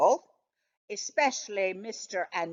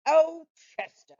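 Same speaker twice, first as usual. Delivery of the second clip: fond, smiling sigh of a name; indulgent smile; 7 semitones higher, 4 dB louder than usual. A narrator's reading. Dog humoring his grumpy cat friend, indulgent and smiling. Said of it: "with an indulgent smile".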